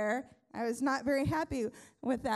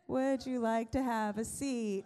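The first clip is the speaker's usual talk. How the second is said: slower, disbelieving repeat of the nurse's words; incredulous echo. Retold or imitated. Pastor retelling the nurse's offer, repeating it in disbelief. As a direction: echo it back like you can't believe it. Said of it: "And I'm like".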